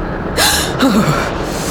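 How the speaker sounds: sharp, unvoiced gasp. Anya opening the door onto freezing wind, gasping. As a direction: gasp out a breath, no words. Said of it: "The way you gasped".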